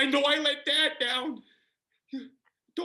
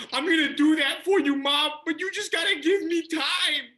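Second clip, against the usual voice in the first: louder, begging shout; a loud plea for more time; pleading shout; 3 semitones higher, 5 dB louder than usual. Acted. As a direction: push back hard at mom.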